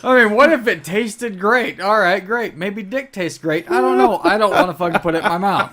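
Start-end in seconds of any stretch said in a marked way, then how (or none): 3.7-5.7 laughing. Real, not acted. Laughing refusal after joke.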